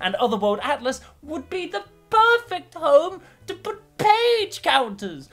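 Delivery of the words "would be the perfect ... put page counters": put-on very high, old crone voice, pitched way up. Listing which counters suit each item, old crone voice. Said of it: "why I'm now speaking like an old crone".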